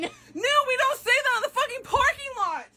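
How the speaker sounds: very high scandalized scolding; mock scolding. Coworker scolds friend in the parking lot, mock scandalized. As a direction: shut the friend down in a squeal.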